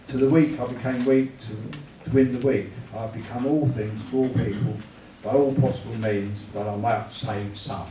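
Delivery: emphatic Bible reading aloud; Scripture reading. Real, not acted. Preacher reading Paul's letter to the group, measured emphatic reading. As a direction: read the verses out firmly and deliberately.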